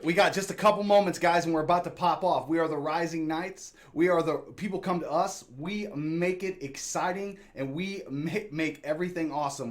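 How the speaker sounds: loud, fast, wired hype; buzzing like too much caffeine; jittery. Real, not acted. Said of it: "look, I'm jittery".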